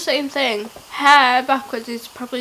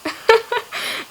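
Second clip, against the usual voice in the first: high burst of laughter; laughing; 10 semitones higher than usual. Real, not acted. Hearing her failed backwards word, laughing. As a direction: crack up in a high giggle. Laughs at the played-back attempt.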